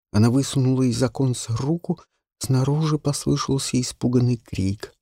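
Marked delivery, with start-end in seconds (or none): none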